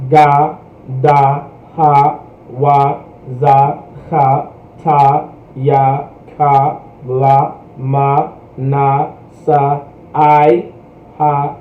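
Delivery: each letter sung out with an open ah vowel; alphabet recited with ah. Shown as a demonstration. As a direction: recite the letters slowly, every one ending in ah. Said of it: "So to say the full alphabet".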